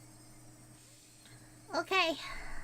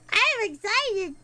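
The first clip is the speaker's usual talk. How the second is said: louder excited repeat; 5 dB louder than usual. Real, not acted. Repeats it louder after laughing.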